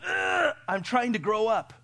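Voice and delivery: put-on slow, strained, whining kid voice; little boy straining. Boy answering his mom in a slow strained whine. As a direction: groan it out like a boy pushing hard. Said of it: "And he goes".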